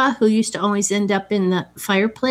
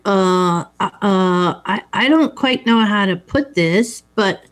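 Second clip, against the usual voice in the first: imitating hesitant stammer with repeated uhs; halting, searching for words, lightly acted; stumbling; slower than usual. Benjamin nervously phones Missus Robinson from the hotel, stumbling. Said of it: "he just stumbles".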